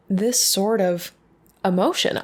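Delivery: ordinary talk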